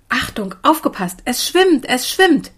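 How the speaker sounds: high, thrilled call of alert; excited calling. A narrator's reading. Child warning the others the raft is moving, excited calling. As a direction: announce it excitedly, pitch leaping up.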